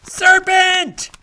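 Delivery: high, loud shrieked accusation; furious shriek. Acted. Pigeon beating Alice with its wings, furious shriek. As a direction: screech it at the intruder.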